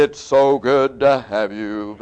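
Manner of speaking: slow, laughing mock preacher voice; expected pulpit greeting. Imitating the expected preacher's voice at the handshake. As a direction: ham up the preacher's sanctimonious tone. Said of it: "he expected when the guy".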